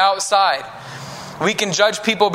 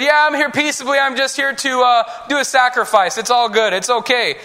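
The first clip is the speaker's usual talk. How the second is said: reassuring Samuel; 5 semitones higher than usual. Acted.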